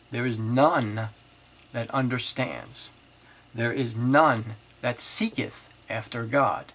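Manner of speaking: each none leaned on, slow and loud; emphatic scripture reading. Acted. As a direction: proclaim the verse word by word. Reads scripture aloud emphatically.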